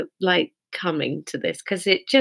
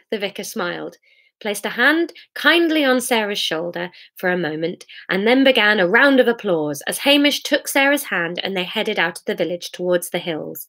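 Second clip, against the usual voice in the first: expressive storybook reading, lifting on the questions; measured narrator with lively pitch swings; story narration. A narrator's reading. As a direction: read it aloud as a wry tale. Reads story aloud.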